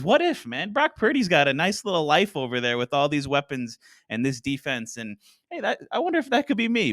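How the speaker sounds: musing aloud as the quarterback; imagined inner thought. Retold or imitated. Voicing Cousins's wistful inner thought.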